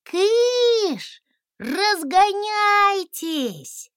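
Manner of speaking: very high, loud, drawn-out shoo; shooing shout. A narrator's reading. Dragon shrieking at the crowd to scatter. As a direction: scatter them with a squeal.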